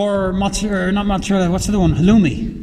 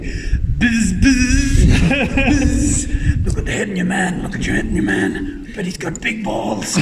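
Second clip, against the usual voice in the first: imitated messer; 2 semitones higher, slower than usual. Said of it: "he'd be like".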